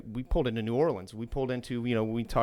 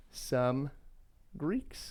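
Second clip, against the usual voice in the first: whisper; 3 semitones higher, 6 dB quieter than usual. Acted. Whispered sign-off of restaurant ad.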